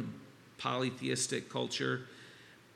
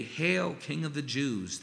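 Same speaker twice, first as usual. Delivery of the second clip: higher, louder mock salute; 3 semitones higher, 3 dB louder than usual. Soldiers jeering at Jesus, a mock royal greeting. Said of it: "They mocked".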